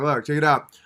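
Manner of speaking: usual speaking voice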